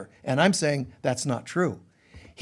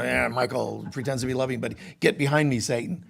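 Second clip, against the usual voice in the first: hushed, quick gossip voice; gossiping bystander; 6 semitones lower, 6 dB quieter, faster than usual. Retold or imitated. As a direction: mutter it fast like someone gossiping behind his back. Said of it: "you know".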